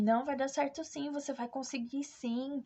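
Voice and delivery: retold reassurance, urging her on with conviction; emphatic encouragement. Médica e enfermeira to a doubting woman in labour, emphatic encouragement.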